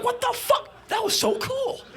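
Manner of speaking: shouted way up high, amazed; squealing shouted delight; thrilled roadie. Retold or imitated. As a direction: yell it like he can't believe it. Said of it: "And the roadie's like".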